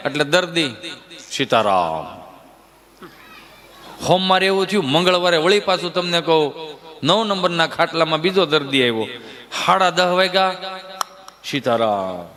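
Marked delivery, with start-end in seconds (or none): 1.3-2.2 low, faint final "Sitaram."; dying patient's last word. Retold or imitated. Patient on bed nine sighing his last, low and faint. 11.4-12.3 low, faint final "Sitaram."; dying patient's last word. Retold or imitated. Patient on bed nine sighing his last, low and faint.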